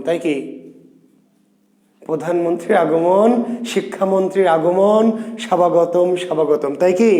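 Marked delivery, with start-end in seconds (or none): 5.4-6.7 স্বাভাগতম with a sounded b, repeated; mock mispronunciation. Shown as a demonstration. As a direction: say স্বাভাগতম as sha-ba-go-tom. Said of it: "বয়ের উচ্চারণ আমরা করছি না".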